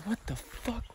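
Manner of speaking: startled cry. Retold or imitated. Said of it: "I'm like".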